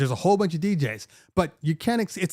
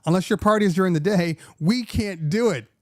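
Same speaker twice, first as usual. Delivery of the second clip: firm refusal; 4 semitones higher than usual. Retold or imitated. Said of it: "I said".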